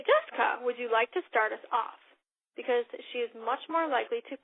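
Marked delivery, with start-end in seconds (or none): 0.0-2.0 "Jessica" bright and direct, then a confident ask; right way. Shown as a demonstration. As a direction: invite her by name so she just rolls. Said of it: "You say".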